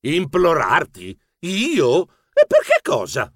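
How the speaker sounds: taken-aback, incredulous questions; startled. Acted. Narrator as himself answering his presumptuous cousin, startled. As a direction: recoil in disbelief, question by question. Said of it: "Io sussultai".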